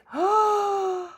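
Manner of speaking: high gasp of surprise. Real, not acted. Crafter gasping at her finished heart. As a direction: let the gasp catch in your throat.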